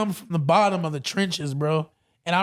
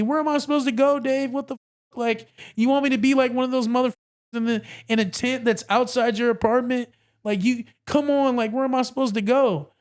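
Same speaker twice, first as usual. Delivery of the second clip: put-on frantic girlfriend; 5 semitones higher than usual. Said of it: "screaming, crying, calling me".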